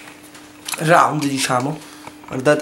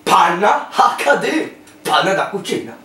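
ad voice; 2 semitones higher, 4 dB louder, slower than usual. Pretend. Mock advert announcing product.

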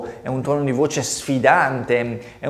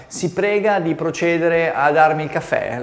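mock stiff formality; 4 semitones higher than usual. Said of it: "lo dici così".

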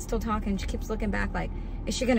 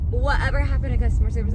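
fast, louder, stressing Whatever; louder exasperated repeat; 3 semitones higher, 5 dB louder, faster than usual. Real, not acted. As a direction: hammer the question home in disbelief.

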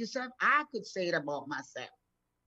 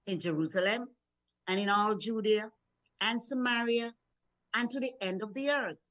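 scripture reading. Acted. Reads scripture aloud.

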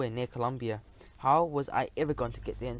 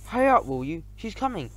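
shouting; 5 semitones higher, 4 dB louder than usual. Acted. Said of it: "They shouted to each other".

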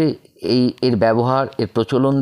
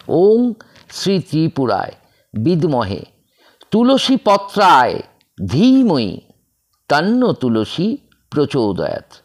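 staccato; 3 semitones higher than usual. Shown as a demonstration. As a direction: chant ওম শ্রী ত্রিপুরায় in separate pieces, with gaps. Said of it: "আমি কেটে কেটে বলছি".

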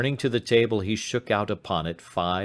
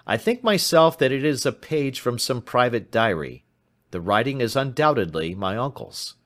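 put-on young client recalling details, pitch slightly raised; 6 semitones higher, 3 dB louder than usual. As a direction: explain the clue in a higher voice.

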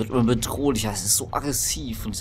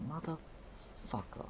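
whispered curse; 6 semitones higher, 16 dB quieter, much slower than usual. Real, not acted. Frustrated swearing at the game.

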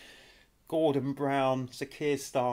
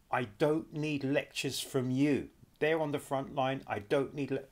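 mock Starmer; 3 semitones higher than usual. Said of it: "So this is him".

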